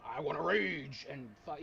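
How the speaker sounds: mock barbarian roar, slow and drawn out; lightly hammed-up raging barbarian, stretching the words; dumb barbarian. Player mocking his own barbarian character, in a dumb raging voice. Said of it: "I'm a fucking dumb barbarian raging".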